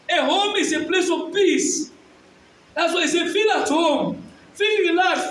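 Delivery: emphatic, declamatory sermon voice; forceful preaching. Real, not acted. Preacher urging parents to take education seriously, forceful preaching. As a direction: preach it hard to the congregation.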